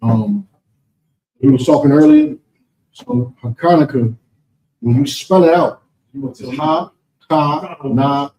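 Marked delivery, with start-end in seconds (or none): 2.9-4.2 Hanukkah with a guttural Hebrew ch at the start, said slowly; Hebrew pronunciation. Shown as a demonstration. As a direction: Hanukkah the Hebrew way, throaty first sound. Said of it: "that's how it's pronounced in the Hebrew".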